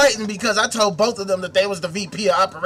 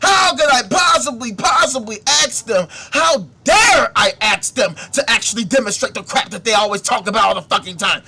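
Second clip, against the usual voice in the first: mock offended whine; 5 dB louder than usual. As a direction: play the hurt victim, dripping sarcasm. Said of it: "they're acting like".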